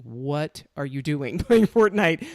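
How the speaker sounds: incredulous questioning. Retold or imitated. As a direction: imitate an astonished teen questioning a kid. Retelling son's incredulous question.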